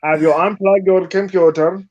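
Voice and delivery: lightly put-on fake Indian accent, customer service agent. Joking on stream as a customer service agent, fake Indian accent. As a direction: play a phone support agent in a mild fake Indian accent. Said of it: "fake Indian accent".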